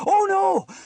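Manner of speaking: very high, loud wail of alarm; alarmed cry. A narrator's reading. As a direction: cry out in dismay. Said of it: "cried Sam".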